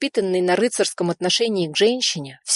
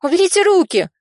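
much higher, louder angry cry; 12 semitones higher, 6 dB louder than usual. A narrator's reading. Nadya crying at the men to take their hands off, angry. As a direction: shriek at him to let go. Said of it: "гневно воскликнула она".

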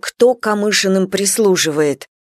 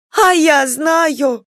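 defiant shout; 7 semitones higher, much slower than usual. Acted. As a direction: throw it back defiantly. (дерзкий выкрик)

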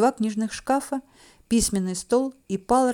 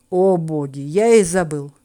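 sighing exclamation; 4 semitones lower, 5 dB louder, slower than usual. A narrator's reading. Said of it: "вздыхает эльф".

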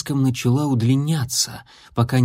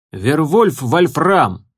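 put-on slow, higher grumbling werewolf boy; 4 semitones higher, 4 dB louder, much slower than usual. A narrator's reading. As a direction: grumble the name out slowly. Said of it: "проворчал парнишка с косматыми бровями".

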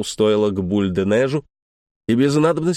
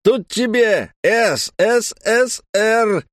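shouting; 8 semitones higher, slower than usual. A narrator's reading. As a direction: shout it right in his face. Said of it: "крикнула билетёрша в лицо французу".

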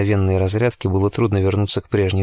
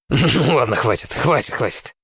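laughing protest; 4 semitones higher than usual. A narrator's reading. Zeb laughing, fending off.

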